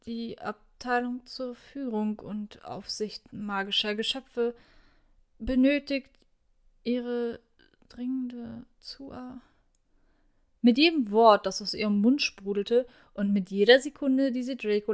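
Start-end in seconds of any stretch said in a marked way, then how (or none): 0.1-9.4 starts at normal level and fades to almost nothing, slowing; fading quieter. A narrator's reading. Hermione recognising Draco mid-request, fading from normal to barely audible. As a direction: lose your nerve word by word until the voice dies. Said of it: "war sie leiser geworden".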